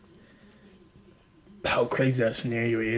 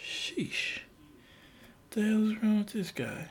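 higher, soft whispered unease; wary whispered reply; 7 semitones higher, 8 dB quieter, slower than usual. Retold or imitated. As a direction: back off quietly from a strange guy. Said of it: "And you're like".

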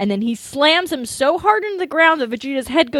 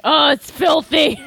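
loud mock disgust, a little higher; disgusted cry; 5 semitones higher, 3 dB louder than usual. Fussy alien villain squealing at dirt, mock-disgusted.

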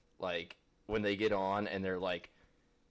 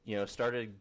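put-on teen influencer voice; slower than usual. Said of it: "teenage influencers sound".

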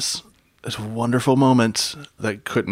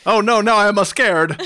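laughing mock fright; 8 semitones higher, 5 dB louder than usual. Mocking Wally, laughing.

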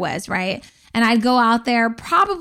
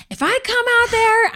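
high mock mother voice; a hint of a scolding mom; mom's threat; 12 semitones higher than usual. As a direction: snap back as mom, pitched up.

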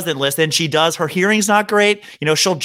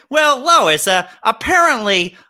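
Peter Griffin; 5 semitones higher than usual. Retold or imitated. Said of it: "Did you ever see on Family Guy".

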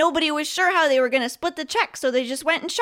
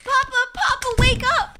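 calling out; 9 semitones higher, 4 dB louder than usual. Acted. Child waking sleeping father.

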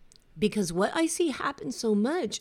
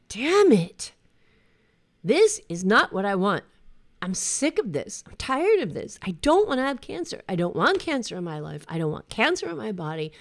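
retold frustrated outburst; 2 semitones higher, 3 dB louder than usual. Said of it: "I was just pissed".

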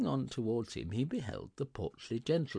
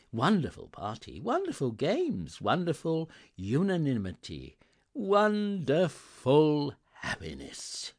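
louder, higher, ending very drawn out; building jubilation; 6 semitones higher, 6 dB louder than usual. A narrator's reading. Narrator relishing the Christmas party, building jubilation. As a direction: build each wonderful to a rapturous peak.

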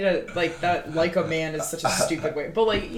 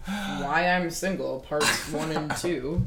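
announcer voice; much slower than usual. Acted. Announcing episode title.

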